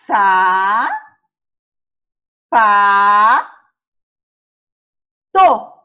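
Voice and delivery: "Sa, pa, to" with long gaps; slow sounding out; very slow syllables. Shown as a demonstration. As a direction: say it really slowly, counting sounds. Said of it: "falar a palavra bem devagar".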